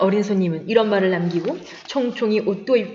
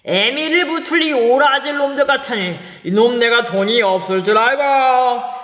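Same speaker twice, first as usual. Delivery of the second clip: angry outburst. Acted. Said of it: "화를 버럭내며".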